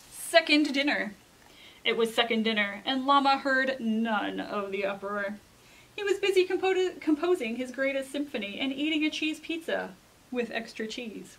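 put-on measured read-aloud to children; storybook narration. A narrator's reading. Reader tells children of Llama's invitation, storybook narration. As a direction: tell it like a picture book, pointing the key words. Reads a picture book aloud.

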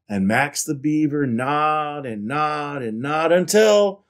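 animated picture-book reading; story narration. A narrator's reading. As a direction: read it out to children with lively emphasis. Reads picture book aloud.

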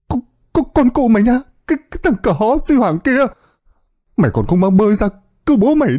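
high, loud panicked swearing at his friend; frantic cursing shout. A narrator's reading. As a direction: curse him out in terror. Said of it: "càng la hét gào thét lớn hơn". (la hét chửi bới hoảng loạn)

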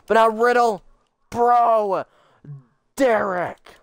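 excited play-by-play call; wrestling commentator. Acted. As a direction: call the match like a ringside announcer. Plays wrestling commentator over game.

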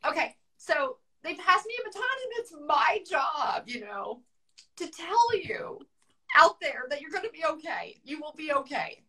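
real weeping, voice cracking on the message; still crying. Real, not acted. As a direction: fight back tears to reassure them. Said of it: "I'm sorry I cried".

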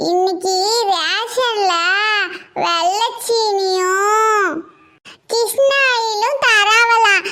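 put-on whiny child. Child complains about being kept home.

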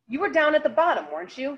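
a friend's gentle asking, not a courtroom tone; friendly. A narrator's reading. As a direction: ask like a friend. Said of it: "but in a friend's voice".

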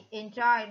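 enjoy stressed on JOY; second-syllable stress. Shown as a demonstration. Teacher gives the answer, enjoy stressed on the second syllable. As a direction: hit the last syllable of enjoy. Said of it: "the second stress syllable".

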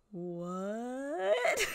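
a soft, laughing questioning what. Retold or imitated. Quoting the dingoes' catchphrase, softly laughing. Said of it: "and they'll still".

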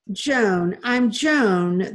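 loud, shrill-pitched cry of the name Joan; old twin correcting the children, shrieking. A narrator's reading. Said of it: "the woman shrieked".

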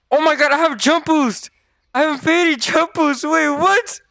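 high-pitched, astonished outburst; amazed excitement. Real, not acted. Player finds out he has jump boost, amazed excited cry. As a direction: squeal it in happy disbelief. Discovers the new item's power.

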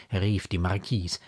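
plain reading voice

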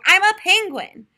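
high, loud proud declaration; proud little turtle. A narrator's reading. Little turtle proudly telling mom, high and loud. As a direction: boast it like a child. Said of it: "said Little Turtle".

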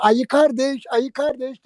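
put-on high lightly accented call; calling to the bear, teasing; mock coach. (ayıya seslenen hocayı hafifçe taklit ederek)

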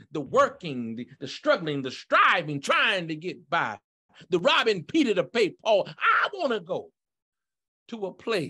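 rhythmic preacher's list building to a cry; fervent preaching. Real, not acted. Preacher tells church of worldly struggles, fervent preaching. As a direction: preach it in punched, separate phrases. Preaches on escaping daily cares.

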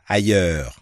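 ailleurs said fast in one beat; teacher showing fast ailleurs; quick ailleurs. Shown as a demonstration. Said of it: "Đọc lẹ là".

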